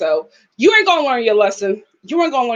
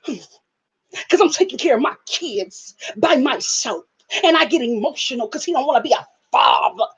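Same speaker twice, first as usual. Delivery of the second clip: mock weary Sarah. Mimics Sarah's sighing confession.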